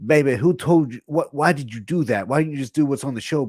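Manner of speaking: high, loud put-on promoter voice; Dusty Rhodes. Boss questioning Axel backstage after the squash, hammed-up impression. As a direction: do an animated boss demanding an explanation. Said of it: "Dusty Rhodes is going like".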